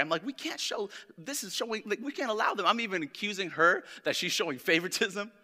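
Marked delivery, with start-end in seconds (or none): 0.2-2.7 higher-pitched, flustered protest at modest volume; retold anger. Preacher retells accusing Stephanie of favoritism, mock-mad. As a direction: imitate your own worked-up objection, lightly. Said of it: "I got so mad".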